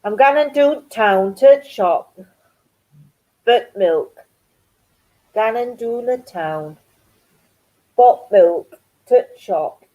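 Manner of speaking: lightly demonstrated Geordie dialect; slight Geordie twang. Shown as a demonstration. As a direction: say it with a touch of Geordie. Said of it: "slight Geordie twang".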